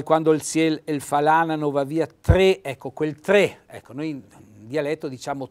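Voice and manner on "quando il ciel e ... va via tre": reciting a dialect proverb, louder; Trentino dialect. Shown as a demonstration.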